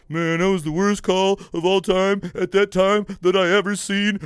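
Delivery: a light mock Kermit-like whine; mildly mock the quarterback as a croaky puppet; Kermit the Frog voice. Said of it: "Sounding like Kermit the Frog".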